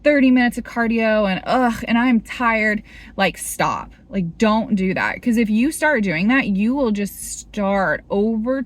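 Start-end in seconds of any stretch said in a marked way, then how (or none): 0.0-2.8 frustrated grumble. Retold or imitated. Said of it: "you wake up and you're like".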